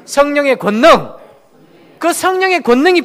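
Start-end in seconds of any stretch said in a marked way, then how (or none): 0.0-1.1 성령의 능력 and 성령의 권능 spoken slowly for echo; slow call to repeat. Shown as a demonstration. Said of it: "한번 따라해보세요". (천천히 따라하게 성령의 권능)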